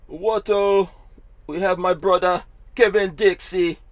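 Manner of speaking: high and loud, hyping the guest; excited welcome. Real, not acted. Host welcoming his brother onto the show, excited and loud. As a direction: bring him on like a hype man.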